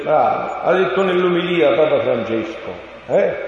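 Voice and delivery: ordinary delivery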